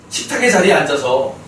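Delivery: normal talking voice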